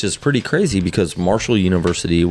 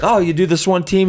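much higher innocent comic voice; naive golfer; 13 semitones higher than usual. Retold or imitated. The golfer asking about holes, high naive voice. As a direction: play the clueless guy up high. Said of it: "and the guy's like".

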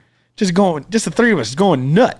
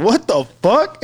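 laughing; 4 semitones higher, slower than usual. Retold or imitated. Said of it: "And Joe's like".

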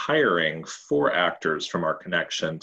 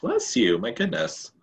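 surprised; 6 semitones higher than usual. Real, not acted. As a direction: exclaim it in surprise. Second sneeze, bigger reaction.

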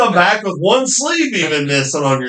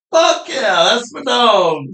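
retold cheer; 7 semitones higher, slower than usual. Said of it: "I jumped up and screamed at lunch".

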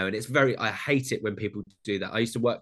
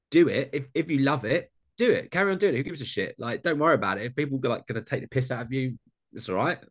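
excited encouragement; 3 semitones higher, faster than usual. Retold or imitated. Urging friend to carry on.

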